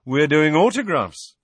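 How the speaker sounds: vain celebrity. A narrator's reading. Patient telling healer about his fans, proudly exuberant. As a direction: announce it like a delighted child.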